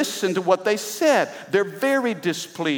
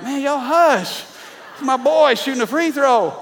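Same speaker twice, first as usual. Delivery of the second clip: raised, louder retold protest; indignant dad; 8 semitones higher, 5 dB louder than usual. Dad telling cheerleaders to hush for his boy, retold indignant holler. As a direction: holler it at the noisy kids, high-pitched.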